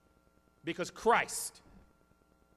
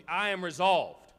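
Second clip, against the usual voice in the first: "I am resolved" said slowly and firmly; firm resolve; 6 dB louder, slower than usual. Shown as a demonstration. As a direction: state "I am resolved" with slow conviction. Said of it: "You know".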